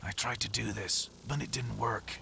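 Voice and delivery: a mild attempt at a gruff voice, barely changed; a hint of gravel in a voice that stays mostly natural; gruff Doug Cockle impression. A quick, mock-gruff line imagining Doug Cockle as Scott. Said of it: "a really gruff Scott who's like".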